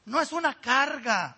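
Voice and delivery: slow, tearful insistence on no; choked up. Real, not acted. Pastor tells the flock church is no burden, near tears. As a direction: voice catching with real emotion.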